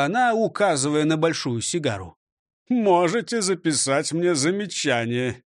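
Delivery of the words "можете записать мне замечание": a hint of insolence; cheeky reply. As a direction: talk back lightly. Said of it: "дерзко ответил управляющий". (дерзко)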